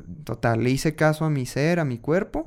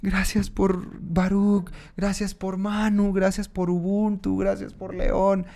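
higher, slow, drawn-out imitation of crying gratitude; mock tearful thanks; 5 semitones higher than usual. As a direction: list thanks as if weeping, no real sobs. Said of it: "Llorando, gritando". (gracias imitando llanto, agudo y lento)

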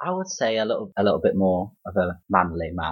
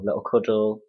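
Derby accent. Real, not acted. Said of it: "I love the way you say that as well with your Derby accent".

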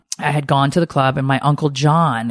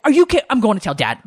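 put-on whiny kid threat; 7 semitones higher than usual. Son KJ threatens to tell Dad.

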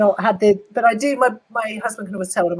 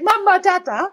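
mock baby talk; 11 semitones higher than usual. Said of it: "I was like".

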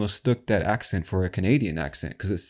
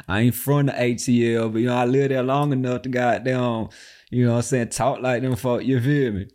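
higher, slurred Atlanta street talk; Atlanta accent; 4 semitones higher than usual. Shown as a demonstration. Game host showing how Atlanta locals talk, Atlanta accent. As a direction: put on a thick Atlanta accent, running words together. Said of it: "That's the Atlanta accent right there".

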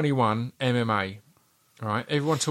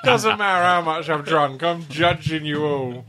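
high, loud laughing teasing; 5 semitones higher, 5 dB louder than usual. Real, not acted. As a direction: laugh while teasing your friends. Drunk mocking laughter.

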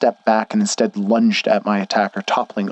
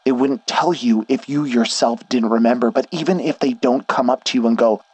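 a hint of a stern worried friend; firm but caring, slightly higher; lightly voiced Schnee; 4 semitones higher than usual. Schnee explains the town.

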